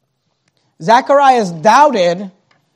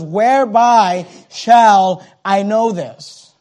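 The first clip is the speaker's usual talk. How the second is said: doubting question; much slower than usual. Shown as a demonstration. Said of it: "not speaking out of curiosity".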